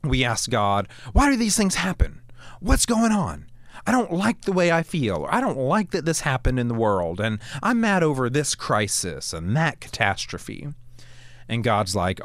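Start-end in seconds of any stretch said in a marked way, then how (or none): 1.1-10.7 complaining to God. Retold or imitated.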